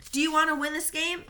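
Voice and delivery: loud, high rallying shout; captain yelling to his circle of players. Acted. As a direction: shout it to fire up the team. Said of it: "Victor shouted".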